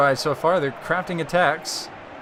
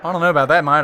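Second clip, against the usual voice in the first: put-on Australian accent; 5 dB louder, faster than usual. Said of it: "I've got an Australian accent".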